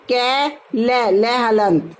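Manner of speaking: कै, लै, लै हलंत spelled out slowly, one syllable at a time; slow syllable spelling. Shown as a demonstration. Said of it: "इनका उच्चारण".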